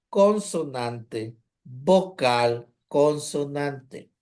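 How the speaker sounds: slow, spaced-out syllable pattern; slow syllable breakdown. Shown as a demonstration. Teacher showing students a closed syllable, slow and spaced. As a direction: spell out the syllable shape slowly, one piece at a time. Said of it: "porque es".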